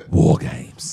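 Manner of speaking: low, breathy regal announcement of War Games. Shown as a demonstration. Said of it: "Say it in that regal voice".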